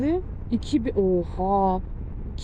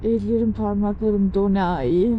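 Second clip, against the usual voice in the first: shivering. Real, not acted. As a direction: speak through chattering cold. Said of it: "çok üşüyorum şu anda".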